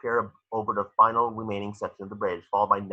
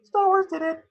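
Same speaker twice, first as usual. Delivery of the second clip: mocking aside; 3 dB louder than usual. Aside about the quote.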